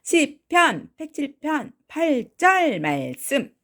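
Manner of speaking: put-on very high, sung young lady voice; 아주 높게 노래하듯 아가씨처럼; 아가씨 목소리. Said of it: "아가씨 목소리로". (아주 높은 노래조 아가씨 목소리)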